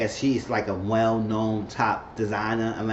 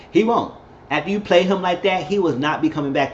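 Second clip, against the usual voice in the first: heated scold; 5 semitones higher, 3 dB louder than usual. Real, not acted. Commentator scolding Bella.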